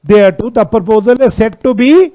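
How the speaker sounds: very drawn-out words; teacher's slow prompt to follow along; slow read-out. Shown as a demonstration. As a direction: read slowly, leaving the phrase hanging. Reading the law's wording to class.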